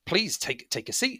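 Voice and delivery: high, polite invitation; little woman. Acted. Little woman invites guests to sit, politely. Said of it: "a little woman".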